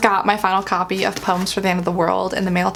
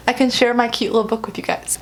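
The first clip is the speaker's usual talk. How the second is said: normal talking voice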